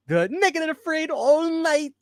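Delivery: put-on high, drawn-out Jamaican accent, amused; slow high-pitched parody of a Jamaican ad voice; mock Jamaican accent. Host repeating his favorite line of the clip, mock Jamaican accent. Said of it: "It's full Jamaican".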